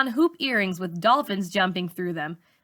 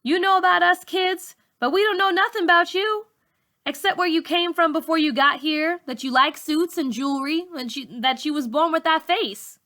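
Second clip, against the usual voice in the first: put-on teen girl's voice; 8 semitones higher than usual. A narrator's reading. Malika complains to teacher.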